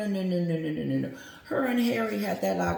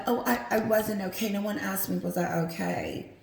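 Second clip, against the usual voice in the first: mock Meghan; 3 semitones higher than usual. Mocking Meghan's interview complaint, a lightly put-on voice. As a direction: imitate her complaint with light mockery. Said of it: "Meghan was in Africa talking about".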